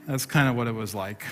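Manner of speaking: repeated through a laugh. Real, not acted. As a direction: chuckle it out.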